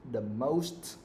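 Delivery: very slow, drawn-out dictation; dictating. Shown as a demonstration. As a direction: stretch each word so pupils can write. Dictates sentence for pupils writing.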